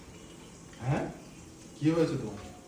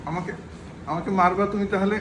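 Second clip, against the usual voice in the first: 1 pretend baby help cry; 4 semitones higher than usual. Voicing baby, mock cries for help.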